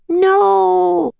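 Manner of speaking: high, loud horrified yell. A narrator's reading. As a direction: scream it as he jumps. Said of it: "yelled Jack and Annie".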